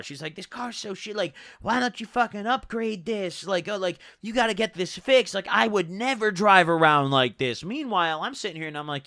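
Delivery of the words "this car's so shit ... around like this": mock berating. Passenger telling the driver to upgrade the car, mock berating. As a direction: lightly mimic a passenger running down the car. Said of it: "she just started berating my car".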